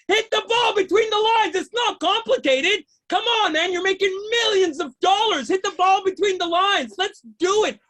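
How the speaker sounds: worked-up stand-up tirade; exasperated rant. Acted. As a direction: berate the players in exasperation. Exasperated rant at ball players.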